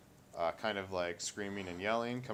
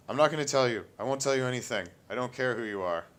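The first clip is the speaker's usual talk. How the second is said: defiant shout; 4 semitones higher, 7 dB louder, faster than usual. Acted. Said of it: "what sounds like Wayne's voice".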